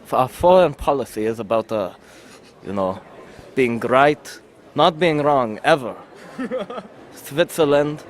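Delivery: Westerwelle impression. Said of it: "try again after hearing the video".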